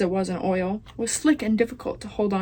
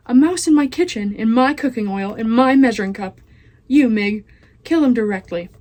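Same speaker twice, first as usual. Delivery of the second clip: outraged cook; 5 dB louder than usual. Acted. Cook finds mouse in oil.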